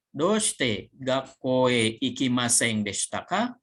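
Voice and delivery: Doushite gakko e ikimasen deshita ka read slowly, every syllable spelled out; drawn-out reading of "Doushite gakko e ikimasen deshita ka" for learners; slow textbook question "Doushite gakko e ikimasen deshita ka"; slow model reading. Shown as a demonstration. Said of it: "slow model reading of the question".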